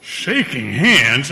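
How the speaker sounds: slow, stretched disbelieving echo; incredulous. Acted. Store owner stunned at shaking the rival's hand, slow disbelief. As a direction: repeat it as if it's unthinkable.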